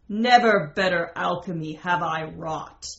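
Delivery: loud, exultant narrated yell. A narrator's reading. Lover calling out to the crows, yelling in triumph. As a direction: call it out in triumph, without screaming. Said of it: "Mystery yelled out to the crows".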